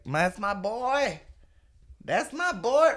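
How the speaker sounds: high, whooping cheer of a proud fan; slow, high hammed-up crowd cheer. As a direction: yell it like a fan at a gig. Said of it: "That was, that was just me".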